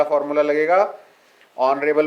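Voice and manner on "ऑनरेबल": ऑनरेबल begun on the vowel, H unspoken; silent H. Shown as a demonstration. Teacher explains the article rule, ऑनरेबल with silent H. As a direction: say ऑनरेबल without any H sound. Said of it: "में एच silent है".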